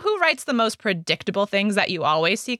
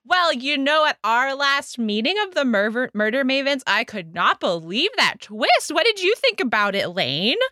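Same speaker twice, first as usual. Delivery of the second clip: loud showy book-club talk; 2 semitones higher than usual. Acted. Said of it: "start talking loudly about our book club".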